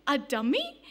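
"A dummy?" asked with a rising, puzzled tune; puzzled question. Retold or imitated. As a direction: echo "dummy" back as a baffled question. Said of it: "and she says".

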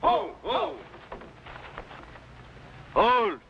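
calling out. Acted. King halts approaching men.

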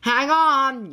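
loud, high warning; urgent yell. A narrator's reading. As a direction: yell to passengers to brace. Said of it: "yelled Aisha".

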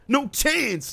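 high-pitched gleeful jeer; mock taunt. Gamer taunting Gruznova before the fight, mock taunt.

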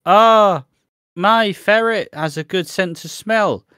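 high, loud over-eager mum voice; mocking Facebook mum. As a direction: ham up the keen do-gooder. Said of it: "All of them are like".

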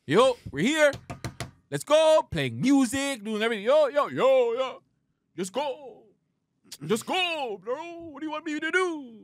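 high, loud calling out to a passed-out friend; impatient shouting to rouse a drunk buddy; mock yelling at friend. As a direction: yell at him to get up.

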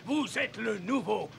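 high, loud, laughing thanks; overjoyed. Acted. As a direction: gush with delighted laughter. Captain overjoyed by the deal.

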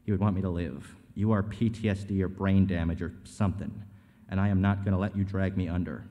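forceful, accusing script read; hard-driving acted argument; heated confrontation. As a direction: tear into them in a tense showdown. Acted graveside confrontation in script reading.

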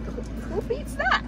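high, thrilled rhetorical question; excited. Real, not acted. Mom gushing to viewers over a snack bargain, excited. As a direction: sell the deal with a big lift.

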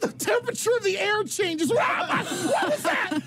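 nervous. Real, not acted. Nervous, hands in mystery box.

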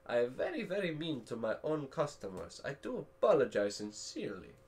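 put-on Russian accent. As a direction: speak as a comic Russian host. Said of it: "Don't know where the Russian accent came from".

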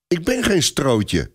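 put-on high, slow child's protest; drawn-out, high-pitched indignation; indignant little boy. A narrator's reading. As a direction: protest like an offended small child. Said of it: "zegt kleine Robert verontwaardigd".

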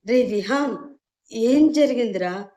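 worried mother, a little alarmed; anxious. Acted. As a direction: ask quickly, a touch flustered. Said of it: "కొంచెం కంగారుగా అడిగింది".

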